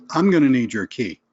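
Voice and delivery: blunt, firm demand for the key. Shown as a demonstration. Stranger at the hotel demanding the car key bluntly. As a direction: state it like an order. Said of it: "listen to the tone".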